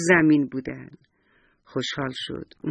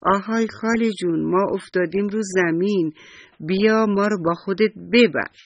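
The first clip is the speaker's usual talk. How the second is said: a mild storybook shout, a bit raised; calling out; 3 semitones higher than usual. Acted. Big walnut calling after the old auntie, mild shout. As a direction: call after her like a small walnut left behind. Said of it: "گردو بزرگ داد و فریاد زد".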